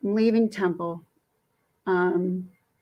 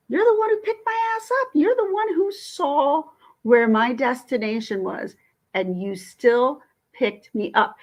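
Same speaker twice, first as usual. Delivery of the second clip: high-pitched indignant outburst, slowing at the end; retold rant; 5 semitones higher, 3 dB louder than usual. To the driver who picked her up, indignant high telling-off. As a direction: snap at him, indignant.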